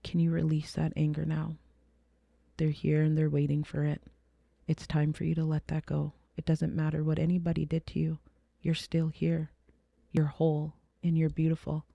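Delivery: soft, gentle, reassuring; a hint of calm comfort; mild tender quoted daughter. Daughter comforting her angry mother, gently soft. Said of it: "and she said".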